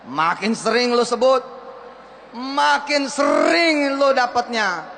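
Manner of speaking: fired-up slogan. Shown as a demonstration. Motivator leading the crowd, slow and loud. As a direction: preach it slowly with full force. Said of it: "Ayo ikutin saya".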